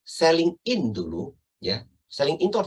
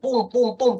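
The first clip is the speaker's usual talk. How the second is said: high, punched "pum, pum, pum"; emphatic pounding; 8 semitones higher, 5 dB louder than usual. Shown as a demonstration. Trainer mimics agents stressing exclusions, pounding beats. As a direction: hit each "pum" like a blow. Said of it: "Kalau Anda tekankan".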